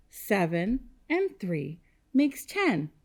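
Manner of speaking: slow, word-by-word recital; leading choral repetition. Shown as a demonstration. Teacher leading kindergartners to say it with her, slow choral pace. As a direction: space out each word so all can join. Leads class in saying it together.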